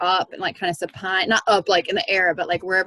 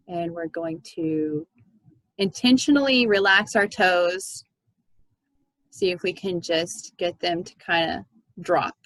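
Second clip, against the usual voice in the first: guided meditation. Acted. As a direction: guide the group gently into relaxation. Leads a meditation.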